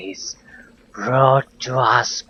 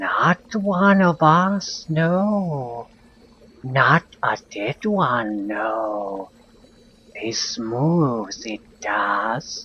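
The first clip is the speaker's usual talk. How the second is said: slow, hoarse cave-woman voice, pitched up; 5 semitones higher than usual. A woman in a cave slowly raises her head and speaks: slow, hoarse voice. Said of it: "She speaks with a slow, hoarse voice".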